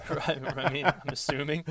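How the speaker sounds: talking through a laugh. Real, not acted. Backing off his WiiWare jab, laughing. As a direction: chuckle through the words.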